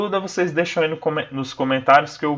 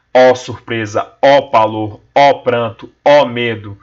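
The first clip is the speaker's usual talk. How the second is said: louder, slow declaimed cries; dramatic exclamations; 2 semitones lower, 6 dB louder, slower than usual. Acted. Teacher declaiming the poem's climax, louder. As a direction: declaim each ó with rising drama.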